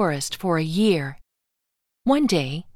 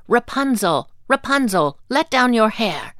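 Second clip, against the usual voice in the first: calling up to the tower window, higher; 5 semitones higher, 4 dB louder than usual. A narrator's reading. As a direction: call out to the window above. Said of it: "call out".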